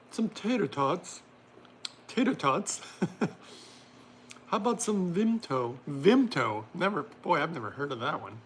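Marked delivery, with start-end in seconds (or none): 0.1-2.8 lightly put-on British voice, pitched up; playful mock-British; attempted British accent. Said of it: "I can't do my very British accent". 4.5-6.6 lightly mock-British, pitched up; a hint of put-on British; attempted British accent. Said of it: "I can't do my very British accent".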